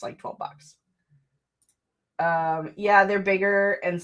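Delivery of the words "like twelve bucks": unvoiced confiding whisper; whispered aside. Real, not acted. Streamer confiding the low price of her dice. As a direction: let it slip as a secret.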